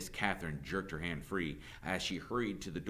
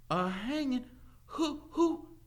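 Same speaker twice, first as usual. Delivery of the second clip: very high, startled voice; alarmed questioning; slower than usual. A narrator's reading. Teacher hearing of a hanging, alarmed. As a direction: ask in sudden dread.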